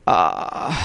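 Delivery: a low, soft, half-hearted moan; faint groan imitation. Preacher imitates mild complaints of the lost, soft low moan. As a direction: barely voice a sigh of complaint. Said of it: "gente que dice".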